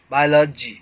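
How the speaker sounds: "बायोलॉजी" said bye-la-jee, middle vowel reduced; correct pronunciation demo. Shown as a demonstration. Teacher repeating the right form for learners, "बायोलॉजी" as bye-la-jee. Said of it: "का लजी pronunciation होता है".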